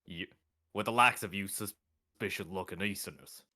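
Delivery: put-on southern accent. Guard dismissing suspicious Easterners, southern accent. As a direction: go southern, kept low. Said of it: "give it a southern accent".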